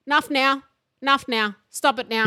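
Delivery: lightly voiced mum telling her child to stop; imitating stern mum. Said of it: "And then you hear".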